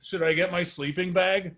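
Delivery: put-on high hopeful child asking; eager kid voice. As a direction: ask like an eager sleepover kid. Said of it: "that's what I looked like".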